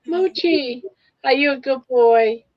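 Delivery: greeting the dog with high pet talk; cooing at dog. Real, not acted. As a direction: gush over the dog in a high voice.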